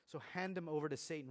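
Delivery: quick, stern reading of the harsh command; harsh scripture quote. Retold or imitated. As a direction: say it as a hard verdict. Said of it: "really harsh language".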